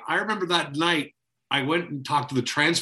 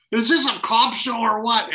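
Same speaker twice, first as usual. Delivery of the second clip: retold flipping out; 8 semitones higher than usual. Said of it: "And you were flipping out".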